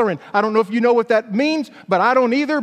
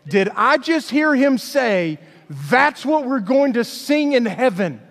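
disbelieving inner thought; slower than usual. Retold or imitated. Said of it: "I just think to myself".

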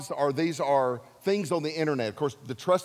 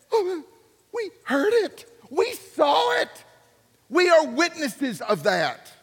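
high, slow, shouted testimony; excited witnesses; 10 semitones higher, 4 dB louder, slower than usual. Acted. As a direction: cry it out like you saw it yourself. Apostles voiced as excited witnesses.

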